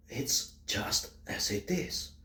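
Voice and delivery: slow soft whisper. Acted. Telling Americans their place, a slow whisper. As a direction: let it drop as a cold fact.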